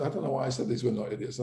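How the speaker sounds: fast, throwaway self-correction; fast, offhand "these were not idiots" with no push on "were"; quick aside. Real, not acted. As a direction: rattle it off quickly, half to yourself.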